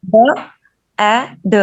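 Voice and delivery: ब, ए, ड said as separate letter sounds with pauses; spelling out letters. Shown as a demonstration. Teacher sounding out ब, ए, ड for children. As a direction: sound out ब, ए, ड one letter at a time. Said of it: "इस तरह हम बच्चों को सिखाते हैं".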